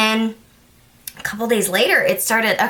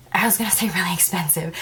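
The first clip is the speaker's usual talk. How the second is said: voiceless, soft whisper; whispered aside; 3 semitones lower, 5 dB quieter than usual. Real, not acted. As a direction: confess the slip under your breath. Whispered aside on a slip of tongue.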